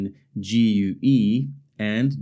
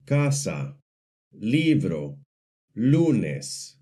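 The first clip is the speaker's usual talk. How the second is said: casa, libro, lunes stressed on their first syllables; stress on second-to-last syllable; much slower than usual. Shown as a demonstration. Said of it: "stress is on the second to last syllable".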